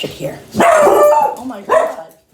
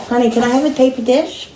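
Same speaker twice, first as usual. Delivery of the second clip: insistent repeat; 4 semitones higher than usual. Real, not acted. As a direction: ask again, clearly impatient. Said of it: "I asked you three times".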